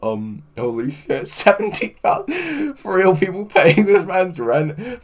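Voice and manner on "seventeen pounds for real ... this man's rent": amazed. Real, not acted. Donations keep coming in.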